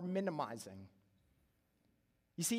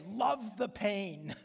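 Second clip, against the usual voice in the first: coaxing dad; 2 semitones higher, much slower than usual. Retold or imitated. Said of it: "I would say".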